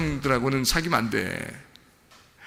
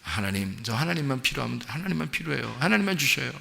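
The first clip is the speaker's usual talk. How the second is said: humble prayer; 6 dB quieter than usual. Retold or imitated. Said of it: "아니면 어떻게?".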